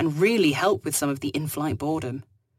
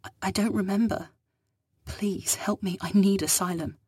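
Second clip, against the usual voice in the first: a higher, hesitant woman pleading; sheepish plea; 4 semitones higher than usual. Acted. Lost woman begs the captain for help, sheepishly. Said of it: "she sheepishly admitted".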